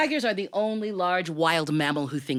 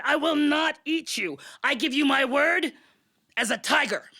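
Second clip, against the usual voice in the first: solemn tiger vow; 9 semitones higher than usual. Acted. Tiger swears a false promise.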